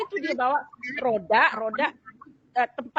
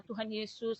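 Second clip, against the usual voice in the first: weak prayer; 4 semitones lower, 11 dB quieter, slower than usual. Retold or imitated. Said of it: "nangis cuma".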